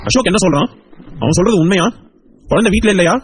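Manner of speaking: high, urgent questions; alarmed questioning. Acted. Husband questions wife about missing child, high alarmed voice. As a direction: demand the truth, pitched well up.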